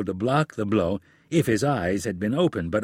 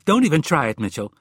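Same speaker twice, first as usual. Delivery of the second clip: angry warning; 4 semitones higher, 5 dB louder, faster than usual. Acted. Wife cuts off husband's denial.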